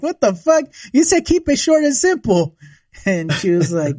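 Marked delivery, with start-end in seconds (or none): 0.0-2.5 mock outrage. Groom protesting his wife's long vows, high and indignant. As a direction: act stunned and betrayed. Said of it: "I was like".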